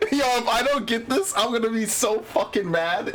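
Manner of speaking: high-pitched, keyed-up fretting; real nervous hype before a drop; tense excitement. Real, not acted. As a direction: sound wound up waiting on the roll. Hoping for loot drop.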